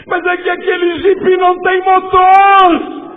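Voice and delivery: slow, loud, high punchline; preacher booming the story's twist; punchline reveal. Acted. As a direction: land the reveal big and slow.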